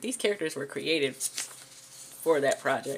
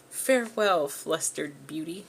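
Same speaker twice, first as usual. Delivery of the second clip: a hint of a dramatic leading man, slowing at the end; lightly voiced cheesy hero bidding farewell; corny suave guy; 2 semitones higher, 3 dB louder, slower than usual. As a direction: deliver it like a cheesy romance hero. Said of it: "no one talks like this".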